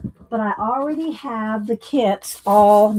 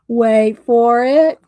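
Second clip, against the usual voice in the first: slower, stretched playful tease; teasing suspense; 7 dB louder, much slower than usual. Real, not acted. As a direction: hold them in suspense. Teasing a funny reveal.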